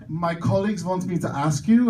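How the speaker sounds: imitated German accent; thick German accent. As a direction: put on a German accent for the quote. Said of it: "with a very thick German accent".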